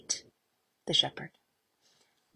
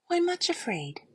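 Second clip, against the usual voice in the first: cheery kindness; 11 semitones higher than usual. Acted. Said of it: "He sounded so cheery and full of strength".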